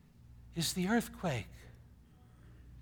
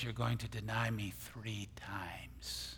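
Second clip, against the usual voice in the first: hushed; 4 semitones lower, 9 dB quieter, slower than usual. Retold or imitated. Quoting Jesus to Peter.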